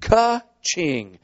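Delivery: spoken ka-ching sound effect; imitated cash register. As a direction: imitate a till ringing up a sale. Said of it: "there'd have been another sound".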